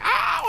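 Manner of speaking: very high mock cry of pain; hammed-up ow; mock yelp. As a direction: squeal it like a cartoon hit. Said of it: "he's just like".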